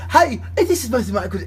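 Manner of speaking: playful mock-European phone greeting; European accent. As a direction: imitate a caller with a European accent. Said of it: "He'd call him in a European voice".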